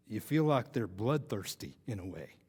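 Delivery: light imitation Southern accent; attempted Southern accent. Speaker quoting his favorite line from the contestant, in a mock Southern accent. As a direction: quote it with a mild Texas twang. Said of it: "I'm gonna try my Southern accent".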